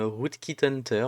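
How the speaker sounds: Rootkit Hunter said with a light English accent; self-mocking English accent. Shown as a demonstration. Spelling out the tool's name for viewers, light mock English accent. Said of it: "avec mon super accent anglais".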